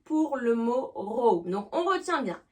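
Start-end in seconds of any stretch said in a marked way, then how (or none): 1.0-1.4 "row" rhyming with cow, drawn out; "ow" vowel demo. Shown as a demonstration. Teacher showing learners the verb for disputer, "ow" vowel in row. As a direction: say row with an "ow" sound, like rao. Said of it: "Avec le son A O".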